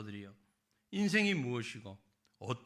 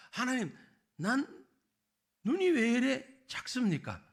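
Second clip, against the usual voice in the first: complaining to God; 4 dB louder than usual. Retold or imitated. Preacher acting a believer grumbling to God, whiny. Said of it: "이렇게 원망할 때가 있죠".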